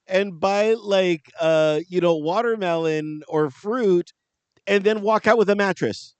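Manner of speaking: high, loud mock amazement; excited retelling. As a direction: gush about it like a wide-eyed convert. Retold excited reply.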